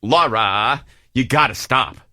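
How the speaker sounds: low, drawn-out reproach; exasperated teacher. Retold or imitated. Teacher telling Laura to stop, exasperated. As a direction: imitate a teacher telling a student to quit it. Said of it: "a teacher that was like".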